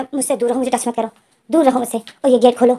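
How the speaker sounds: angry. Acted. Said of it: "विंग बहुत ज़्यादा गुस्से में था।".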